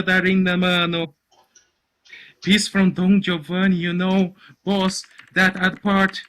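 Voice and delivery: high, loud babble that keeps mounting; unstoppable excited explaining. Acted. Caruso explaining himself to the boss, unstoppably agitated.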